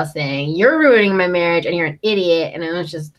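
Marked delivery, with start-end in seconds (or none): 0.6-2.5 louder mock yell, hitting the opening hard; half-hearted imitated outburst; Snooki yelling. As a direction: retell an accusation with mild force. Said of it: "Snooki just started yelling at J wow".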